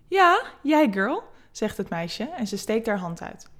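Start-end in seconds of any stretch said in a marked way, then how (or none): 0.1-1.2 high, slow and playful; flirty. Acted. Vera flirting as she offers Eva her hand. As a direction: drawl it out teasingly, pitched up.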